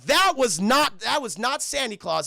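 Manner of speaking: loud mock reproach; mock indignant scolding. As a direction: hit each word like a scandalized boss. Retold scolding by Jack.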